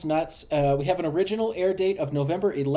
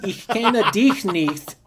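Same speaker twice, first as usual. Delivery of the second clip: imitating a kid's scream; 4 semitones higher, 5 dB louder, slower than usual. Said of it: "he screamed".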